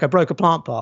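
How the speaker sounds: ordinary talk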